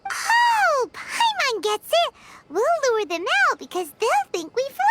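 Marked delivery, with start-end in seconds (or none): 0.1-2.1 high excited oh, then slower; light up with understanding; sudden realization. Acted. Paimon catching on to Cyno's trap, excited.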